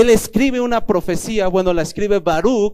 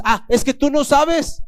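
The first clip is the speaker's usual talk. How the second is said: a higher, slow, drawn-out protest; defensive whine; 7 semitones higher than usual. Retold or imitated. Husband answering the Spirit's rebuke, whiny and defensive.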